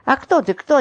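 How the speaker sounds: high, mildly shrieked comeback; very high notes. A narrator's reading. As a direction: throw the question back on high notes. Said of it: "демонстрируя крайне высокие ноты".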